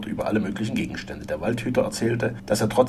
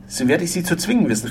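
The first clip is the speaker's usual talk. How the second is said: raised, higher and louder threat; threatening shout; 8 semitones higher, 5 dB louder than usual. A narrator's reading. Frenchman threatens to force the forester, fists raised, menacing. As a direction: call it out as a menace. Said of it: "rief Gérard, indem er die mächtigen Fäuste ballte und drohend erhob".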